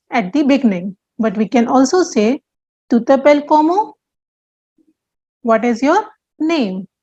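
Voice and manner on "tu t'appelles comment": comment stressed and rising at the end. Shown as a demonstration. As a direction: lift the word comment up as you finish. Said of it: "they are stressed with rising intonation".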